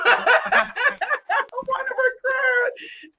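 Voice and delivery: very high, slow words through laughter; excited laughing. Real, not acted. Host wanting to recruit too, high laughing excitement. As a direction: squeal it out while laughing hard.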